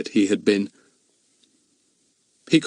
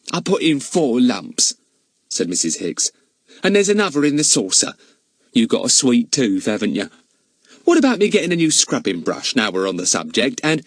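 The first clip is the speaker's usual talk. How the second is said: housekeeper voice; 2 semitones higher than usual. Acted. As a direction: pitch her up like a bustling charwoman.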